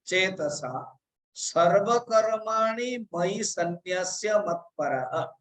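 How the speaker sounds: slow, drawn-out recitation; recited verse line. Shown as a demonstration. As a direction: lay out the verse slowly word by word. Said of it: "चेतसा अर्थात".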